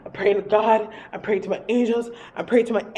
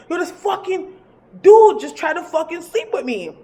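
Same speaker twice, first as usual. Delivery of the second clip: high reenacted panic, louder toward the end; frantic blurting; 8 semitones higher, 5 dB louder than usual. Storyteller telling her boy about the spirit, frantic.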